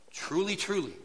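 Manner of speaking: truly, truly given weight, falling; solemn emphasis. Shown as a demonstration. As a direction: press both truly, truly. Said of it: "Remember how this is".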